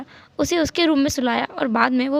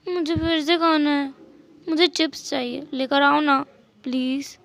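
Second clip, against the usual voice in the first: cute please. Acted. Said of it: "इतना cute please था".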